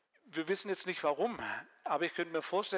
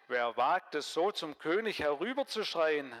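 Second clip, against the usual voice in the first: shouting back; 3 dB louder than usual. Acted. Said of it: "rief Abner zurück".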